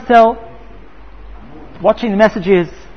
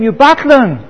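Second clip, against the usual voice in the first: retold angry shout; 3 semitones higher than usual. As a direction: berate him as the irate wife. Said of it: "And she shouts to him".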